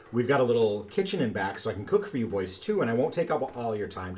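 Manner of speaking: man doing a woman's voice; lightly voiced sweet granny; creaky warbling old lady. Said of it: "warbling little lady voice".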